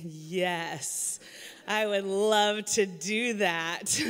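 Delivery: slow, drawn-out eager acceptance; a lightly acted eagerness, taking the job gladly; mock eager yes. Accepting the pastor's offer by text, slow and mock eager.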